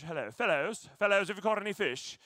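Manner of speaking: lightly put-on British accent. Jesus hailing the disciples from the beach, mock British accent. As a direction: play it as a British gent hailing fishermen. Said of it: "Jesus with a British accent".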